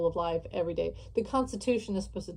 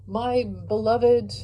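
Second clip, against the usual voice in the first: slow, drawn-out, louder announcement; mock loudspeaker call; 3 semitones higher, 4 dB louder, slower than usual. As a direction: call it out like a cult leader over a PA. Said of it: "yell over the loudspeakers".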